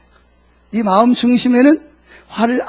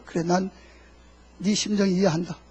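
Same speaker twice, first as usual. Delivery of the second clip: understanding; 3 semitones lower, 7 dB quieter than usual. Acted. God voiced consoling the angry pastor.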